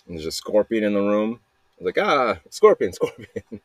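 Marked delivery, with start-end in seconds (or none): 2.0-3.6 higher mock yell, breaking into a laugh; retold panicked yell. Recounting spotting a scorpion in the room, mock panicked yell. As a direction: laughingly act out a startled yell. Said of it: "I just yell".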